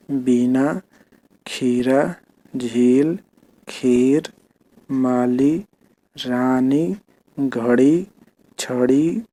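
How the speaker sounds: each word read out on its own for the class; a teacher reading a word list; reading words aloud. Shown as a demonstration. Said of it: "ठीक है, एक बार में ऐसे पढ़ना है".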